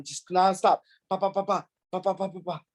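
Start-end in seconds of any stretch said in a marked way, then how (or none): 1.1-2.6 rapid pa pa pa imitating punches; quick mock punch noises; punch sounds. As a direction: rattle off the punches like a combo. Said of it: "four or five punch combination".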